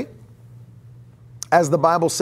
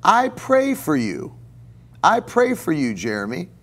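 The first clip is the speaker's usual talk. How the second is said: put-on old teacher voice; 3 semitones higher than usual. Professor tells a startled student he prays for him, lightly voiced. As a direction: gently tell the student you pray for him. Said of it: "And he'd go".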